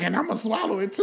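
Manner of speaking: soft mumbled imitation; mimicking friend quietly. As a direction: mutter it like the friend did. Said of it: "that's how I said it".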